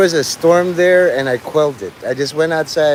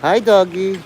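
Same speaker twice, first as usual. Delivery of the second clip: higher, put-on baby-talk to a dog; cooing to a dog; 6 semitones higher than usual. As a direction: coo it like greeting a puppy. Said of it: "he's just like".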